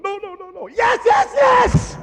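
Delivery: rising to a loud, high yes; Ross's shouted reply. Retold or imitated. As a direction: call out in eager agreement. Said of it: "Mister Ross is going".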